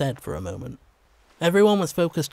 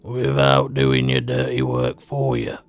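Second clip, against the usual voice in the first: menacing threat; 4 semitones lower than usual. Acted. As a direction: threaten him inches from his face. Leader threatens Doyle face to face.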